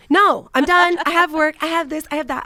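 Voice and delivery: imitating a husband listing excuses; retold firm brush-off; mock brusque refusal. Voices husband's usual refusal.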